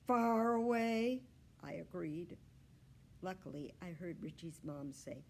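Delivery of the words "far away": loud, slow squeaky agreement; emphatic hamster voice. Acted. Humphrey agreeing with Richie, emphatic squeak. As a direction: insist on it, drawn out.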